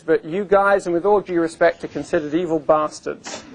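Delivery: a light, hammed-up English accent; mock English accent. Lecturer quoting a critic of Microsoft, light mock English accent. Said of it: "I said that with an English accent".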